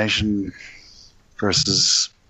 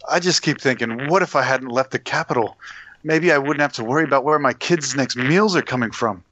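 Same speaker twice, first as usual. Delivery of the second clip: lightly worried, understated mercenary voice; a hint of a fretful hired gun. Mercenary confiding fears about his kids, mildly worried. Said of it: "worried mercenary".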